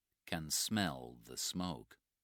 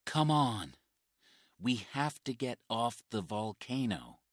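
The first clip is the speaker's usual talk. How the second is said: urgent rescuer; 6 semitones higher, 5 dB louder than usual. Acted. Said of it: "says Mike".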